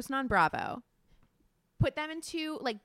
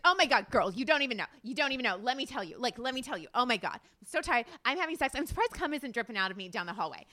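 lightly imitated chatty makeup artist, no accent; lightly mimicked gushing girlfriend patter; Priscilla. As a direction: imitate a friend's breathless run of oversharing. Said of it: "do an impression of Priscilla".

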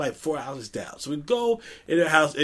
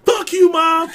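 put-on bratty girl; 10 semitones higher, 5 dB louder, slower than usual. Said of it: "and she was like".

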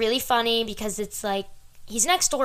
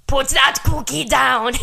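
slow, louder Arnold one-liner; Schwarzenegger impression; 3 semitones higher, 5 dB louder, slower than usual. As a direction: deliver it like Arnold. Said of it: "Arnold Schwarzenegger has some good one-liners".

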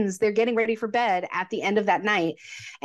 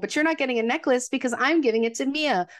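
higher, mock self-satisfied husband; smug Harry; 5 semitones higher than usual. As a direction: play it as a man pleased with himself. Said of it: "because he's like".

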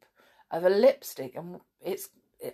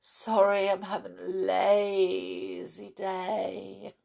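lazy excuse; 2 semitones higher, slower than usual. Pretend. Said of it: "you can just say".

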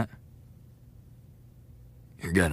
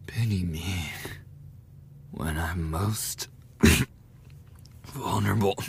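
mocking whisper. Mocking the victim's pity plea.

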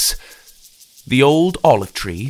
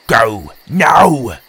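urgent order; 8 dB louder than usual. Acted. Tim repeats his order.

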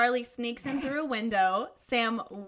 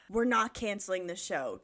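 lower, put-on manly voice; manliest Freddy voice; 4 semitones lower, 3 dB quieter than usual. Reader redoing Freddy on request, manliest voice. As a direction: play up the manly resolve. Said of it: "No, manly, manly of manliest".

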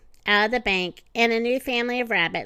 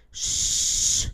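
hushing shush. Acted. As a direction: hush the others near the babies. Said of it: "the animal lowered their voices".

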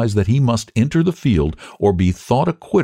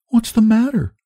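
high-pitched sweet concern; pitying, lifted child's question; sweetly pitying. A narrator's reading. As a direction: ask it high, full of sweet pity. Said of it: "inquired with the sweetest air of pity".

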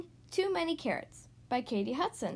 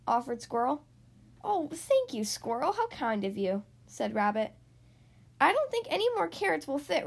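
animated picture-book narration with swooping emphasis; read-aloud to children; 3 dB louder than usual. A narrator's reading. Host reading a story to young listeners, lively storytelling. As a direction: read a picture book to small children, stretching key words.

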